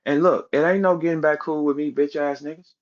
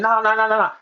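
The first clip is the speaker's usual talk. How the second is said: higher-pitched string of nahs, mocking; mock scared denial; 5 semitones higher, faster than usual. Quoting rival's scared answer back at him, mock scared. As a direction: imitate a scared man backing out. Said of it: "This is what came out your scary ass mouth".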